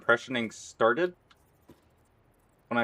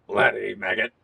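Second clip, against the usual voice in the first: soldier impression. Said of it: "one impression that I did".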